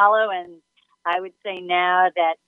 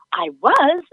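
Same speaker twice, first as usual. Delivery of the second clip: put-on British accent; 9 semitones higher, 3 dB louder than usual. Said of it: "she had the great British accent".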